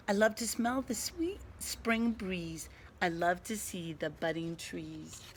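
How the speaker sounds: sing-song rhyming recital; bright storybook poem reading. Acted. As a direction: recite it like a proud little poem. Reads Skunk's poem.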